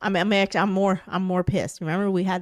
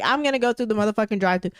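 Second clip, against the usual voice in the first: mock angry; much faster than usual. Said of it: "I'm like".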